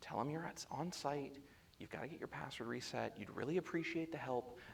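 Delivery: very quiet, half-whispered, coaching tone. Coaching him through a call to get a password reset, retelling a half-whisper. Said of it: "And then I whisper".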